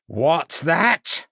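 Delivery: 1 shouted. A narrator's reading. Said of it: "shouted the voice".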